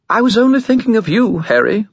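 high, loud wheedling skull; clattering jaw cackling skull. Acted. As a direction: plead innocence eagerly. Skull excuses, much higher.

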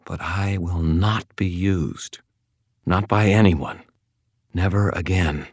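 slow, icy and final; suddenly cold. Acted. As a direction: freeze him out. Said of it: "her voice went suddenly cold".

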